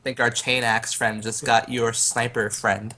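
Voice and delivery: low, slow taunt to intimidate; lightly menacing, take your time; intimidation. Acted. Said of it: "adding to my intimidation".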